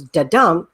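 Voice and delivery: da-dum with weight on dum; one light-heavy beat; iamb rhythm. Shown as a demonstration. Teacher showing the French iamb, rhythmic. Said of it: "It goes".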